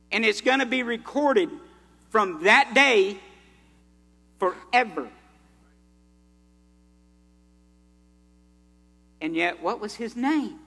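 rising sermon preaching. Acted. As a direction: preach it up to a full-voiced climax. Preaching the lad with the lunch.

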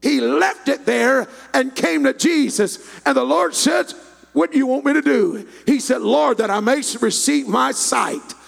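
loud, fervent story climax; full-force preaching. Real, not acted. Preacher telling how Jesus healed the beggar, loud preaching. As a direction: build to a held, shouted pronouncement.

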